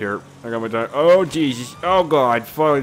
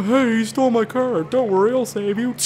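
mock hero voice; 11 semitones higher, 4 dB louder than usual. Mock hero voice while driving.

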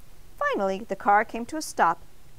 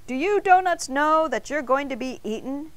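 mild yell, raised pitch; projected, higher question; 6 semitones higher, 4 dB louder than usual. A narrator's reading. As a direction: call out to a group. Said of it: "The baker yelled".

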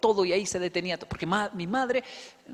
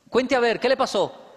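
pressing wife; 4 semitones higher, 4 dB louder than usual. Retold or imitated. Wife presses husband, louder.

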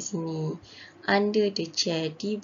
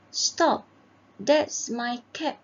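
higher-pitched, mildly indignant demand; acted protest; 4 semitones higher, slower than usual. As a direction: object like a wronged story character. Character confronts cap thief in story.

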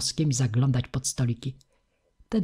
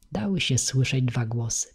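ordinary delivery, nothing marked

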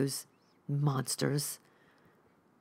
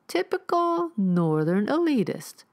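sneering; 8 semitones higher, 5 dB louder, slower than usual. Acted. Rifleman sneers at Neil.

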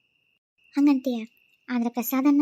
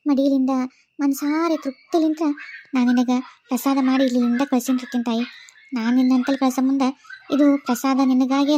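a devotee murmuring an anxious, fervent prayer; earnest prayer. Acted. Woman praying to Chamundeshwari over suspicious prasad, fervent. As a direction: plead with the goddess to protect her.

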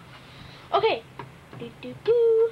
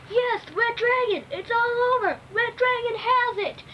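higher excited announcer call; booming fighting game announcer; 5 semitones higher than usual. Pretend. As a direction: call the winner like a ring announcer. Announcing the winner again.

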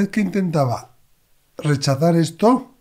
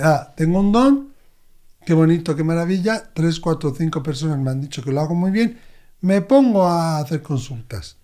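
mocking naive quote; 2 semitones higher than usual. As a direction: send up a self-satisfied beginner. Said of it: "muchas personas que dicen". (imitando con burla a quien se cree con un don)

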